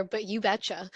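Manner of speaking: light Minnesotan accent, hammed up; a playful Minnesotan "you betcha". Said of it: "I'm gonna do my best Minnesotan accent".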